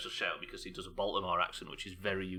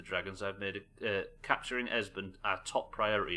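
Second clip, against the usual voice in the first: measured, formal document reading; dossier read-aloud. Acted. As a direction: read out an intelligence report.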